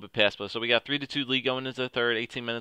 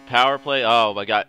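excited shout; 9 dB louder than usual. Real, not acted. Reacting live to a goal.

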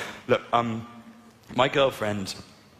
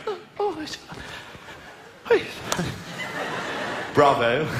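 post-sex exclamation; 4 semitones higher than usual. Retold or imitated. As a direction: gasp out the oh's high, then applaud with bravo. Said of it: "I went".

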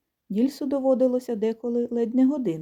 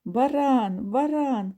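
higher teasing geese call; mock goose jeer; geese shouting; 5 semitones higher, much slower than usual. Geese jeer at the shorn ram, higher teasing call. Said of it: "кричать гуси".

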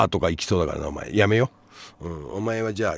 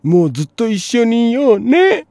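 high sing-song sweet couple voice; mock lovey girlfriend; 8 dB louder than usual. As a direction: coo it like a lovestruck teen. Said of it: "十代の頃の約束なんてお前".

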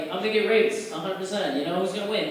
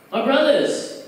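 mock rally speech; 2 semitones higher than usual. Comic pitching an Asian-black alliance to inmates, mock rally speech. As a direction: rouse the crowd like a preacher. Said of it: "a black people speech".

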